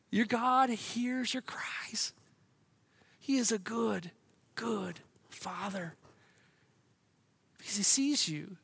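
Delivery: hushed, slowed reassurance; tender preaching. Real, not acted. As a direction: let the words soften almost to a whisper.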